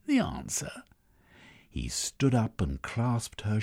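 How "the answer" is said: high, breathy astonished whisper; surprised whisper. Acted. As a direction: gasp it out.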